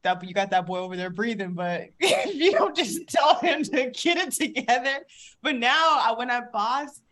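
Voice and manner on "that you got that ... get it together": a hint of a mocking partner, laughing at the end; teasing. Partner teasing mom about the breathing, a light mock. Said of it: "Messier used to tease me like".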